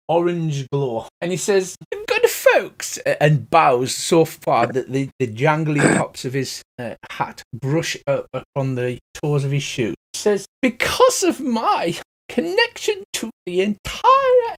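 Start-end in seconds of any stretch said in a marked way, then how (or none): 2.1-3.0 much higher, grand theatrical greeting; bow and gush at the guests; flamboyant elf. Acted. Mister Light greets the party, high and flamboyant. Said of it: "a flamboyant elf". 10.6-14.5 much higher, slow, theatrical; flamboyant elf. Acted. Mister Light boasts to the party, high and flamboyant. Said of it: "every word is accompanied by a flamboyant gesture".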